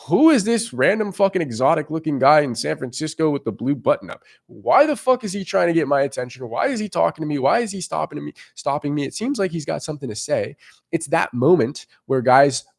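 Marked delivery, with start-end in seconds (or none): 0.1-10.5 lightly voiced bewilderment, a little higher; confused inner voice. Girl stopped by a stranger in San Francisco, mildly confused. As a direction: wonder to yourself in mild confusion. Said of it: "when she's so confused".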